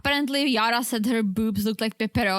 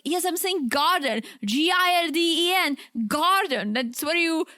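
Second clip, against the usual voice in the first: mildly exasperated, higher-pitched spelling-out; exasperated clarification; 4 semitones higher than usual. Retold or imitated. Retelling herself clarifying the order to staff, mildly exasperated. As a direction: explain it as if to someone not getting it. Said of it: "I was like".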